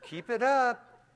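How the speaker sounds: high, loud, slow warning; mock menace. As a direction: drag it out as a tough-guy threat. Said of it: "I said".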